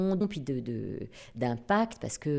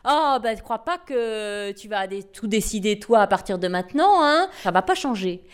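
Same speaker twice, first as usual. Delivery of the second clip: dismissive; 3 semitones higher, 4 dB louder than usual. Retold or imitated. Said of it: "lui dit".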